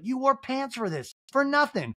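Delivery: high teasing singsong; lightly mocking tease; teasing Kyle. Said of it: "And Kyle's like".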